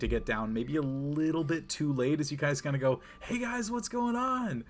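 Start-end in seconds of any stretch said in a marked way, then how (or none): 3.2-4.6 character voice. Acted. Player voices a greeting in-scene.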